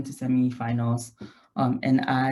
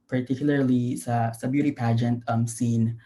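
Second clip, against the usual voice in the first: Taglish. Real, not acted. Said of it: "is it okay if I do it in Taglish".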